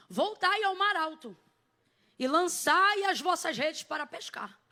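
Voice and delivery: slow, weighty scripture proclamation; quoting Jesus. Retold or imitated. Jesus commanding Peter to put out to sea, solemn proclamation. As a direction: declaim it slowly, stretching the command. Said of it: "e ele diz assim".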